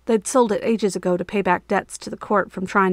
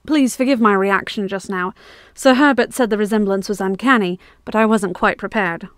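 kindly; 4 dB louder than usual. Acted. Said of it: "Frith said kindly".

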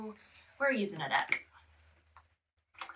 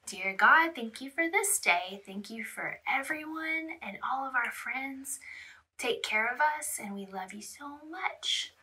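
soft hushed prayer; 3 dB quieter than usual. Acted. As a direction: pray quietly with the child. Leads prayer with toddler.

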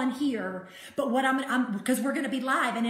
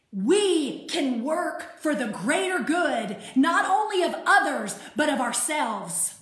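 preaching. Acted. Pastor urging listeners to put on Christ, full preaching. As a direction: drive the message home to the church. Sermon climax to congregation.

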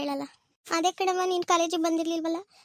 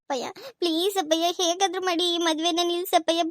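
tearful pleading; 3 semitones higher than usual. Acted. Daughter begging her father to stop the wedding, tearful. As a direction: plead with him through acted tears. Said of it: "ನಿನ್ ಅಳೋದನ್ನ first ನಿಲ್ಸು".

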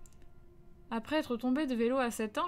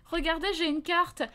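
lost stranger; 5 semitones higher than usual. Retold or imitated. Father plays lost stranger.

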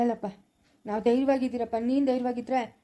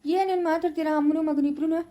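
raised-pitch parental telling-off; fed up, voice pushed up; exasperated scolding; 4 semitones higher than usual. Acted. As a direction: scold them both for silly talk. Father scolds mother and son.

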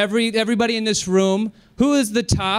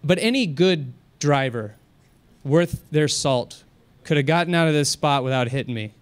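a driver calmly telling off a screaming woman; 4 semitones lower than usual. Retold or imitated. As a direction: keep a straight face and calm. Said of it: "very calm".

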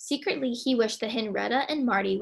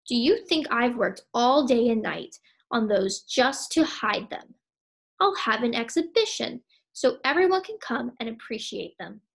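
louder, indignant ranting; indignant outburst; 4 dB louder than usual. Acted. Henry refuses to hide his art, indignant outburst. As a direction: blaze at her in outrage. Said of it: "Henry blazed".

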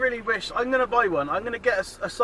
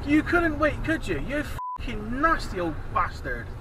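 sneering rebuke; 4 semitones higher, slower than usual. Real, not acted. Berating an old driver.

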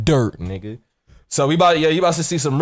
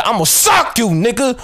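mock threat; 8 semitones higher, 5 dB louder than usual. Threatening the cashier.

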